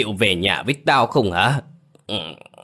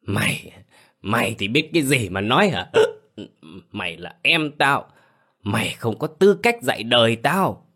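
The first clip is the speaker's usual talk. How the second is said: put-on slurred drunken ranting; drunk slurring; 4 semitones higher than usual. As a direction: talk like a drunk, words slurred. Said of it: "giọng lè nhè đặc trưng của người say rượu". (giọng lè nhè say rượu)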